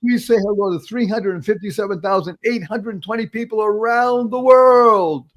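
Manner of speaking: high announcer build, stretched at the end; announcer hype. Real, not acted. Host presents guest to worldwide listeners, announcer hype. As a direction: build up to a long, ringing finish.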